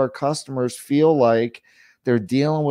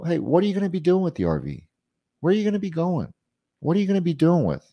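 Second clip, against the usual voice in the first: higher-pitched, curious questioning; light, quick questions with a higher lilt; inquisitive; 5 semitones higher, faster than usual. Shown as a demonstration. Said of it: "like, an inquisitor voice".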